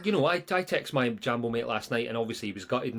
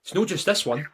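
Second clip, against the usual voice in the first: slightly higher, louder mock rant; mock ranting pundit; 6 semitones higher, 5 dB louder than usual. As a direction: imitate the pundit listing grievances. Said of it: "Boydie's sitting there last night going".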